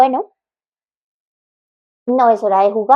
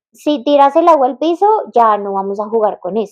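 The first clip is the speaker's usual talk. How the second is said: mock parent threat; 2 semitones higher than usual. Imitating a parent who punishes a child for spilling water, mock raised voice. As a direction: mimic a parent scolding with a threat. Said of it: "muchos papás caen en ese error".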